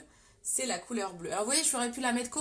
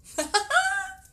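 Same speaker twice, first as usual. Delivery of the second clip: high delighted laugh; 10 semitones higher, 9 dB louder than usual. Real, not acted. Delighted by her own colour choice.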